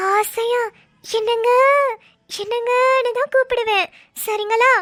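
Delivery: overplayed devotion to scare him; mock reformed wife. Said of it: "என்னாச்சு இவளுக்கு?".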